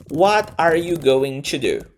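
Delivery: "What are you going to do?" slow, every word fully said; textbook-style "going to", each word separate; careful full pronunciation. Shown as a demonstration. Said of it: "você pode pronunciar assim".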